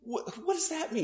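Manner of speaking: can't make sense of the word; lightly voiced Brian, baffled; puzzled Brian.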